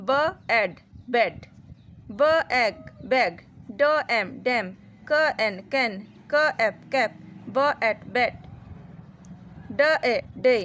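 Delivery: ব then অ্যাড, then the joined word ব্যাড; onset and rime blending. Shown as a demonstration. Teacher to pupils, onset then rime for each word. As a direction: split each word after its first consonant, then blend. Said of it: "না হলে".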